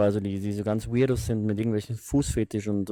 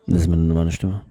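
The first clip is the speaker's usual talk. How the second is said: seductive voice; 5 semitones lower, 4 dB louder than usual. Acted. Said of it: "Warum redest du so angegeilt?".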